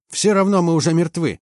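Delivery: high, despairing cry at moderate volume; hoarse yell. A narrator's reading. Chief mechanic to commander, despairing hoarse yell. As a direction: cry it out huskily, giving up. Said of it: "заорал он сиплым голосом".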